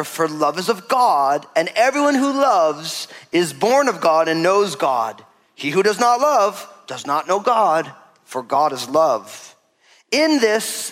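slow, emphatic Bible reading with lifted pitch; scripture reading. Real, not acted. Preacher reading First John to congregation, slow solemn proclamation. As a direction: proclaim the verse in measured, stretched phrases.

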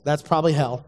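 usual speaking voice

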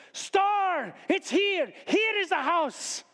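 high, ringing foreign-visitor proclamation; exclaiming magus. Acted. Magus points out the house under the star, exclaiming. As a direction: announce the discovery in a high voice.

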